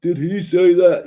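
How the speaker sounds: high, loud, drawn-out disbelief; mock shock. Imitating a listener reacting to a shocking remark, mock shock. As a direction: play a scandalized listener, slow and high.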